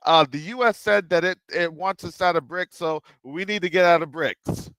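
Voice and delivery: lightly voiced official telling the people the good times are over; mock official address. Voicing South African official to public.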